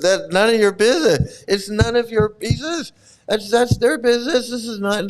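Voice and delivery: hammed-up irritation; mock indignant. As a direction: act out a guru telling someone off. Acting guru's indignant retort.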